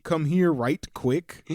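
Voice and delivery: loud, slow "Come here right quick."; mock call. Retelling the mom's summons, slow and loud. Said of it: "that's burned into my brain".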